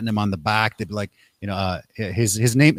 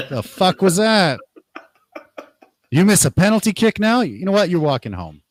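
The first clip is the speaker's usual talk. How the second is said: angry dad; 7 semitones higher than usual. Retold or imitated. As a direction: tear into the kid after a missed penalty. Disappointed dad scolding kid.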